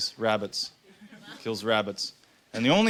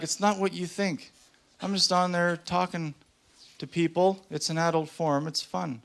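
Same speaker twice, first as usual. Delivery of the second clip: lightly voiced girlfriend, pitched higher; defensive girlfriend; 6 semitones higher than usual. Girlfriend explaining her adult forum, defensive. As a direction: make innocent excuses in a higher voice.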